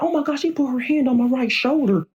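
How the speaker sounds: mock squeal of a starstruck kid; retold excited scream. Kid freaking out over the First Lady's touch, mild high mock scream. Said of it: "I'm screaming".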